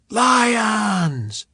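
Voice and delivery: loud shouted answer, falling; crowd shout. Acted. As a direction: bellow it back from the stands.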